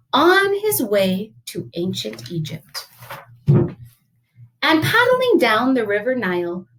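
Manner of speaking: animated picture-book read-aloud; lively, rhythmic storybook voice; story narration. A narrator's reading. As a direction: tell the adventure to children.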